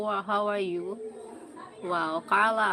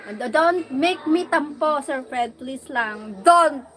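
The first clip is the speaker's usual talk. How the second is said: mock sulky plea; 5 semitones higher, 9 dB louder than usual. Playful sulky plea to viewer.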